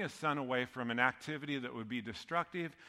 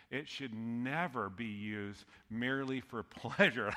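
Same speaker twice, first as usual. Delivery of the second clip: laughing; 2 semitones lower than usual. Real, not acted. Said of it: "I can't even say that without laughing".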